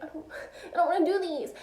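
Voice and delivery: laughing through a whiny refusal. Retold or imitated. Retelling her refusal to coworkers, laughing through it. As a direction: giggle while protesting the chores. Quoting herself refusing the chores.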